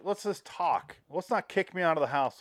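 high, earnest plea to just talk; pleading chef. Retold or imitated. Cage begging the father not to throw him out.

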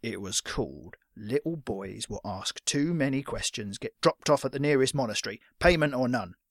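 put-on old fighter leaning in with a warning; deliberate, rough-voiced threat to a boy. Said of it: "his voice dropped lower".

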